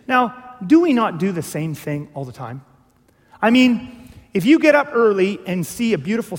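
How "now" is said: usual speaking voice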